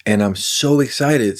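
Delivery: mock cheerful, dripping sarcasm; sarcastic. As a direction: fake excitement, then deadpan. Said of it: "said no C P T S D survivor ever".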